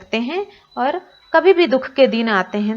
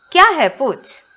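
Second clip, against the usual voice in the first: a lightly voiced old granny, a bit higher and louder; grandmother voice; 5 semitones higher, 6 dB louder than usual. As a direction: answer the boy as a fond granny would. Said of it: "तो दादी माँ कह रहे हैं".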